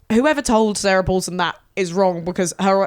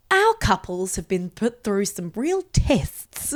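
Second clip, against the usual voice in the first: slow, drawn-out presenter delivery; TV host impression; slower than usual. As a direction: intone it like a dramatic show host. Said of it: "doing some good impressions of her".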